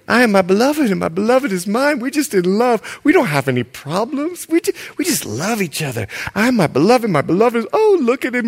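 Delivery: put-on dreamy, gushing young woman; lightly voiced swooning bride; lovestruck bride. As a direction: swoon over him. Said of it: "What issues? I just love you".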